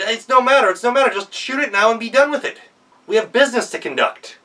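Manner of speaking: high, loud, impatient anger; angry devil. Acted. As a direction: snap at him to be done with it. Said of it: "getting even angrier".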